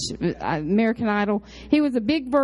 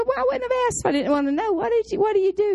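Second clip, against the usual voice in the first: eager questioning; 10 semitones higher, much faster than usual. Retold or imitated. She eagerly presses the trustee.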